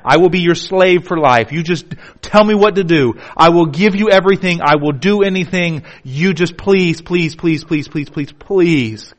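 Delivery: frantic begging that fades out; desperate pleading. Acted. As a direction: beg like a father with a dying son. Father pleading, acted.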